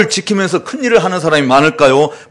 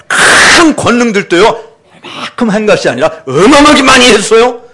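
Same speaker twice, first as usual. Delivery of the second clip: swelling louder and higher with pride; puffed-up boasting, rising higher; boastful bragging; 3 semitones higher, 3 dB louder than usual. Acted. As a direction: brag about every miracle like a show-off. Boastful crowd reporting to Jesus.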